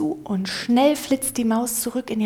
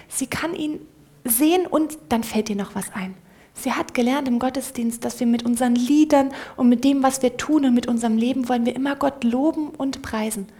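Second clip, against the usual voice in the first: ordinary delivery, nothing marked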